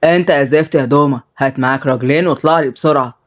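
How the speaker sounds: low, understated irritation; angry. Acted. Boss phones his henchman, mildly angry. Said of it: "واتكلم بغضب".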